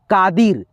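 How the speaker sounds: कादिर with a light, unstretched ee; short unstressed ee. Shown as a demonstration. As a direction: say कादिर without dragging the दि. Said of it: "slowly आ रहा है, धीरा आ रहा है".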